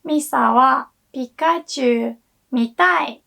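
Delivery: "Misa wa Pikachu mitai" with mitai falling; intonation for want to watch. Shown as a demonstration. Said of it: "if I change the intonation a bit and say".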